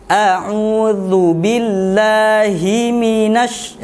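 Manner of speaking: slow a'udzu billahi with clearly sounded hi. Shown as a demonstration. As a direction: hi in billahi pronounced fully. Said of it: "hi-nya harus dibaca dengan jelas".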